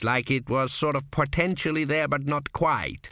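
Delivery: put-on a sly old man in a dream, unhurried; a hint of a wry old founder; old ancestor Kuft. Kuft muses on camels.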